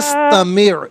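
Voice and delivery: فَاسْتَمِعْ with the ع sounded clearly from the throat; ain sound shown. Shown as a demonstration. Teacher shows caller the ain in فَاسْتَمِعْ. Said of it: "عین کی آواز نکالیے گا".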